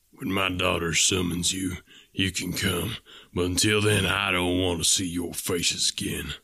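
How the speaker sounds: a stern father warning off unwanted suitors; stern old farmer. Acted. Ferrier voiced by narrator.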